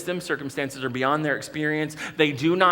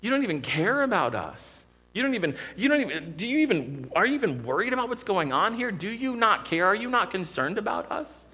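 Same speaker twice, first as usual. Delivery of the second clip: higher, rushed, exasperated complaint; accusing rebuke; 5 semitones higher than usual. Retold or imitated. Frightened disciples rebuke sleeping Jesus, mildly exasperated and accusing. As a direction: throw the blame at him, voice climbing. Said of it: "the slam that that is on Jesus".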